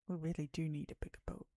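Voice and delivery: quick, insistent repeat; pushy insistence. Retold or imitated. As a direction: push the point hard. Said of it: "really pushy about it".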